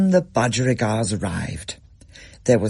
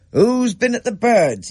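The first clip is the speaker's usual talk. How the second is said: angry Dad; 11 semitones higher, 5 dB louder than usual. A narrator's reading. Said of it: "he said".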